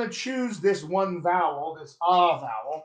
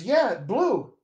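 higher, offhand mock student; a confused brain that hears no difference; student's brain shrugging; 5 semitones higher, slower than usual. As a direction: toss it off high and careless. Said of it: "the student's brain goes".

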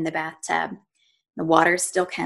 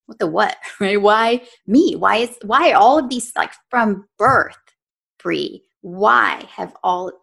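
higher-pitched, retold outburst of anger; angry protest; 3 semitones higher, 3 dB louder than usual. Woman recalling asking why me at her lowest, angry. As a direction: relive being angry, stressing each why. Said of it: "I started to get really angry".

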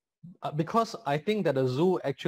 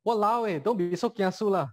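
Singlish; 5 semitones higher than usual. Shown as a demonstration. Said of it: "So you can say that".

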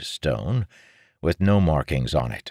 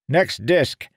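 put-on curt, raised old man's voice; testily; 11 semitones higher, 4 dB louder than usual. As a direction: bite the words off, annoyed. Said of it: "he said testily".

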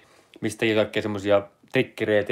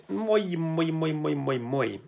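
much higher, soft sing-song moi moi; playful hello; 6 semitones higher, 4 dB quieter, much slower than usual. Acted. Greeting Jakki and Petri in chat, in a high chirpy sing-song. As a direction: chirp the greetings like a cartoon bird.

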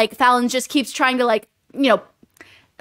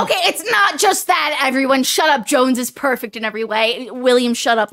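louder, higher mock indignation; playful outburst; 3 semitones higher, 5 dB louder than usual. Real, not acted. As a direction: shout them down in jest. Defending her favorite, telling co-host off.

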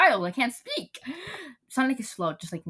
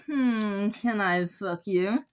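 slow, seductive take on the same crude line; mock romantic, slowed right down; slow romantic version; 3 semitones lower, 4 dB quieter, much slower than usual. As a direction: make it sound romantic, drawn out. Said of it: "Can't you be more romantic?".

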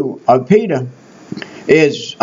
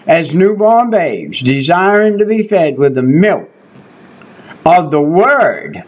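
slow scripture reading; 2 semitones lower than usual. Shown as a demonstration. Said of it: "Remember now, Verse two".

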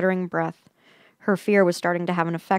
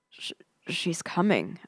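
slow, halting whisper; barely manage to whisper it; stammered whisper; 5 dB quieter than usual. A narrator's reading. Terrified narrator warns her friend, stammered whisper. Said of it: "I managed to whisper".

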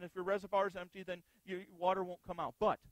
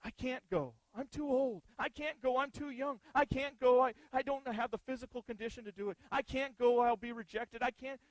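whiny excuses; 3 semitones higher, 4 dB louder than usual. Retold or imitated. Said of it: "plenty of good reasons".

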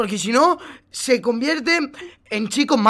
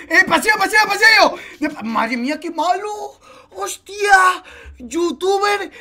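high laughing yells; excited laughing shout; 9 semitones higher, slower than usual. Real, not acted. Teammate reacting to a play.

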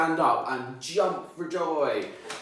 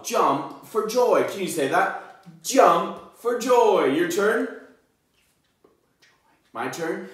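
excited, slow, high; 7 semitones higher, 6 dB louder, slower than usual. Acted. Excited modeling for children.

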